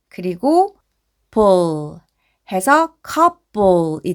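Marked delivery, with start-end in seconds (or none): 1.3-2.0 볼 held long, closing on L; sounding out. Shown as a demonstration. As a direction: draw out 볼 into a final L. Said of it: "앞에서부터 읽어보면". (볼을 길게 끌어 ㄹ 받침으로)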